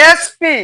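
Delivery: এসপি with "es" and "pi" held apart; এসপি slowly, as two separate letter names; sounding out. Shown as a demonstration. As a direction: stretch both letters of এসপি for the class. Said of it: "কি উচ্চারণ হচ্ছে ভাইয়া?".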